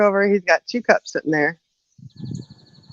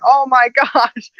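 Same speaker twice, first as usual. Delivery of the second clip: slow astonished; 7 semitones higher, much slower than usual. Retold or imitated. Retold astonishment.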